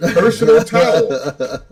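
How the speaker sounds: mock-outraged over his personal towel; hammed-up indignation; indignant. Indignant retold protest.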